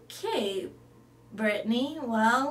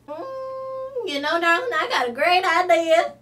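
loud, high Southern belle gushing over darling; a fussy Southern belle who flatters everyone; big, sweet Southern charm; Rhonda Lou; 5 semitones higher, 3 dB louder than usual. Acted.

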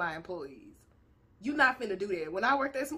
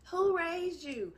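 slow rhetorical question; 5 semitones higher, slower than usual. Shown as a demonstration. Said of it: "steal people lines".

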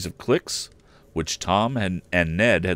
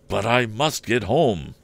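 insistent; 4 semitones higher, slower than usual. Acted. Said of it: "insisted Tom's father".

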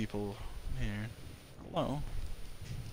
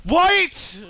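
high, loud disbelieving what; stunned by the news; shocked what; 8 dB louder than usual. Real, not acted. Gamer told to restart the whole game, shocked high what.

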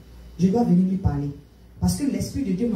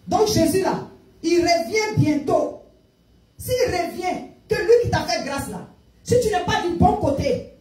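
higher-pitched, insistent preaching warning; urgent warning; 6 semitones higher, slower than usual. Retold or imitated. Preacher warning a freed young man of Jesus' return, urgent. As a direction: press the warning home, pitch held up.

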